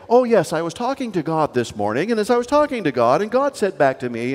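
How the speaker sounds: mock the pious crowd lightly; pious show-off. Seminary friend mocking pious people, lightly voiced. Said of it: "got really annoyed with all the people".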